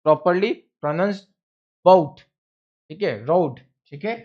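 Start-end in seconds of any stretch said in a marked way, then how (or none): 0.1-2.2 properly pronounced बाउट drawn out and louder; slow and deliberate, each sound clear; careful slow. Shown as a demonstration. Teacher carefully pronouncing बाउट for students. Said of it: "it should be".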